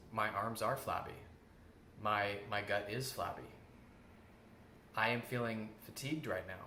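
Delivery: calm, even, matter-of-fact statement; just state the facts, no drama; neutral factual tone. Shown as a demonstration. Showing the class the neutral way to say it, calm and factual. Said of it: "You want to state it factually".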